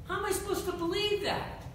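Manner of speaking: high, loud, exasperated cry to God; frustrated plea. Acted. Abraham crying out to God in frustration, high and loud. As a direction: demand an answer, frustrated. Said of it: "I can hear his frustration going".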